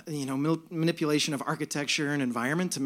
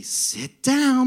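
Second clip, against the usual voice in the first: joyful attendant; 6 semitones higher, 4 dB louder than usual. Retold or imitated. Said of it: "and she'd say".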